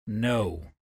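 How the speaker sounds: flat, drained single word. Acted. Josiah answering Ezra about being a seaman, flat and drained. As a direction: say it flat, as if the thought drains you. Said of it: "the way he said the word, flat".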